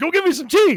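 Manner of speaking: loud, intimidating bark, very high pitch. Imitating how an actor sounds when he talks: intimidating John Amos voice. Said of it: "The guy scares me when he talks".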